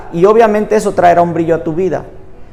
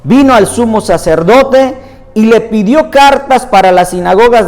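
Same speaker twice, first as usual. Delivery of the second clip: measured, emphatic Bible reading aloud; scripture reading; 2 semitones higher than usual. Acted. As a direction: read the passage out to a congregation, phrase by phrase. Reads Bible passage aloud.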